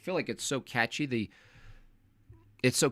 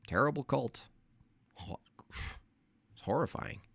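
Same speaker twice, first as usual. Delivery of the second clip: hushed whispered aside; 8 dB quieter than usual. Real, not acted. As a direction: drop to a whisper, ominous.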